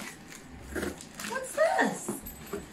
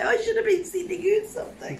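laughing through tears; much faster than usual. Real, not acted. Laughing while crying.

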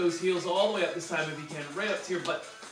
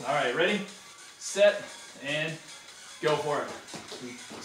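slow drawn-out start call; ready set go call; 2 semitones lower, slower than usual. Acted. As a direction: count them in. Countdown to start.

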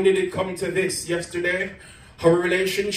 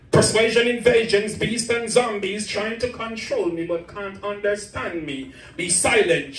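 rhythmic, dramatic poetry recital; defiant slam poetry against abuse; spoken word poem; 2 semitones higher than usual. Acted. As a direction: build the poem with rising force. Performs second spoken word poem.

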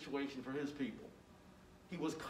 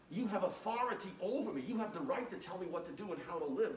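humble prayer; 3 dB quieter than usual. Pretend. Voices a humble prayer to God.

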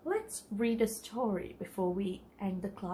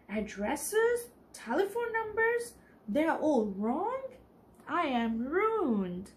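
shriek; 5 semitones higher, 3 dB louder, slower than usual. Acted. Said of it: "I shrieked".

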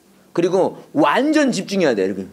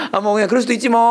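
mock easygoing shrug; 3 semitones higher than usual. Mocking an overly lenient preacher.

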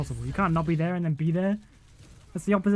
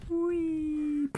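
high whispered whee; tiny whispered whee; 10 semitones higher, 5 dB quieter than usual. Pretend. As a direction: breathe it like a secret thrill. Whispered glee while flying.

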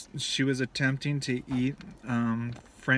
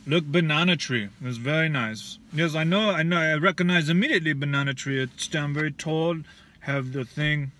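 put-on loud, broken-English Russian accent; 3 dB louder than usual. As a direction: play a pushy Russian tour guide, Russian accent. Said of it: "I love your Russian accent".

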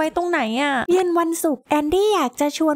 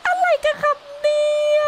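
much higher, disbelieving "what is this"; amazed squeal; 11 semitones higher than usual. Real, not acted. Amazed at the glitch.

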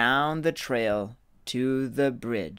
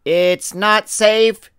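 higher, louder urgent warning; warning big goat; 7 semitones higher, 10 dB louder than usual. Acted. Biggest goat warning his brothers about the troll, urgent. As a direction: caution the little ones sternly. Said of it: "warned the biggest billy goat Gruff".

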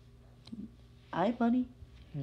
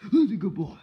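loud praising a dog; 3 semitones higher, 9 dB louder than usual. Real, not acted.

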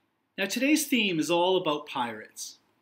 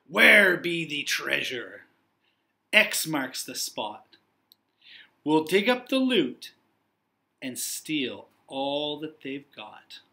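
slow, louder gruff pirate growl; 2 semitones lower, 3 dB louder, slower than usual. Acted. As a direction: growl it like a greedy pirate captain. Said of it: "Big Pete let loose with a scary".

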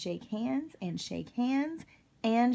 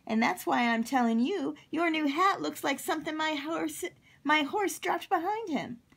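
high, loud cowboy insistence; emphatic bluntness; 8 semitones higher, 5 dB louder than usual. Acted. Cowboy telling Octopus the truth about the hat, emphatic. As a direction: hold it high and loud, then settle firmly.

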